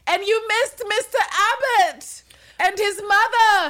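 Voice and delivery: high, slow mock call after someone leaving; calling out after her. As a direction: sing it out after her as she goes. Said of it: "she calls out after her".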